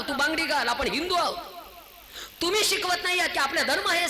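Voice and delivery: high-pitched accusing litany; reproachful preaching. Real, not acted. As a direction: hammer each reproach with the same insistent rise and fall. (उंच सुरात, ठासून केलेली कानउघाडणी)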